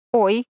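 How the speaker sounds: flustered little gasp; an awkward startled oy; embarrassed oh. A narrator's reading. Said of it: "Я издала смущённый звук".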